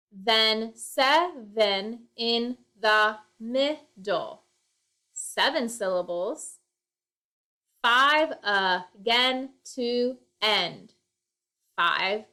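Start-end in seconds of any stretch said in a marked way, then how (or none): 0.1-4.4 slow, every syllable set apart; slow syllable count. Shown as a demonstration. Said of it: "check on this poem". 7.8-10.9 slow, syllables spaced evenly; slow syllable count. Shown as a demonstration. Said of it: "check on this poem".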